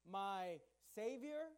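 "Savior" drawn out slowly; emphasis on Savior. Shown as a demonstration. Preacher pointing congregation to a verse word, emphatic. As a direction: stretch out "Savior" to make it stand out. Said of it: "notice the emphasis".

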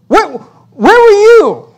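high, slow, drawn-out thunder from above; booming voice of God. Acted. God demanding Job answer him, in a high slow boom. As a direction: stretch each word like God in the whirlwind. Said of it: "God shows up and says".

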